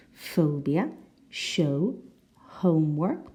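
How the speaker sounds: "phobia", "show", "homework" with a clear long O; O vowel. Shown as a demonstration. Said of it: "we have O".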